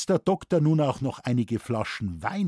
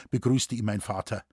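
plain reading voice

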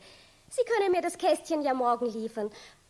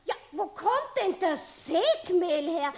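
lachend; 8 semitones higher than usual. Acted. Frau Steinhauser lacht empört über Sägemehl.

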